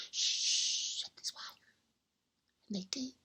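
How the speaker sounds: soft unvoiced shh and whisper; hushed whisper. Wife hushing the old man under the covers, whispering. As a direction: hush him so the elves don't hear.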